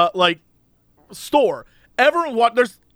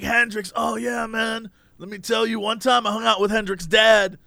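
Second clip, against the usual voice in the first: offhand, understated impression of a talkative man; stand-in stranger voice. Retelling a stranger's Hendrix story, in a lightly voiced stand-in. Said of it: "I'm doing a voice that's not his voice".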